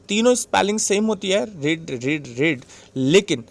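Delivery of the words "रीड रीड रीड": रीड said with a long ee, like reed; teacher repeats रीड slowly, long ee as in reed; present tense read. Shown as a demonstration. Teacher drills class on the spelling, रीड with long ee. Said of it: "रीड की spelling".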